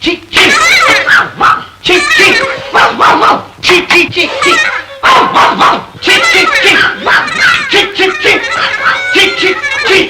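husband shooing the dog away, shouting high; shooing shouts. Acted. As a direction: chase the dog off with sharp high yells.

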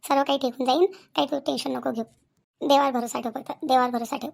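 low, calming comfort; steady them and ease their worry; reassuring. Acted. Elder telling young wife to trust God, reassuring.

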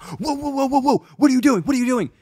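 high-pitched panicky imitation of the driver; mock alarm. Driver alarmed as she grabs bag.

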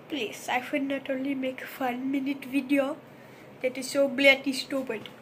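put-on joking Indian accent; lightly put-on Indian accent. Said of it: "enough with the Indian accent".

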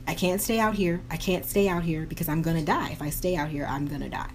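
fading despair. Retold or imitated.

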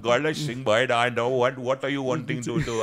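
lightly put-on Indian accent; a hint of Indian accent, playing the waiter; imitated Indian accent. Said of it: "you know the Indian man is not".

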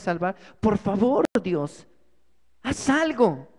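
begging God for rescue, voice rising on the cries; desperate pleading prayer. Acted. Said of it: "busca y clama a Dios". (clamor desesperado a Dios)

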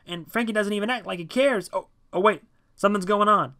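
high, loud, excited calling out; shouted report. A narrator's reading. John on the statue to Dave below, urgent shouting. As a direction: shout a live report down to a friend.

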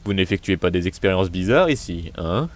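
low raspy put-on voice. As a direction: rasp the line out low. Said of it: "j'ai fait une voix rauque".

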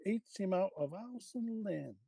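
whispered Cockney gossip. Acted. Mrs Jones whispers the scandal to Mrs Watson, in a Cockney accent. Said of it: "can you please read for us in your best cockney accent".

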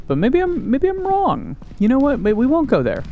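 high goofy voice of mock worry; squeaky high voice. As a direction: pipe it up like a cartoon mouse. Squeaky put-on voice mid-game.

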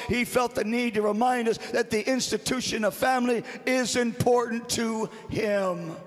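insistent, driving sermon delivery; forceful preaching. Real, not acted. Preacher urges congregation to honor family, forceful and emphatic. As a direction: press each phrase home like a preacher.

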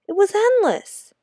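breathless high whisper of despair. Acted. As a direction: sigh it out, unvoiced and weary.

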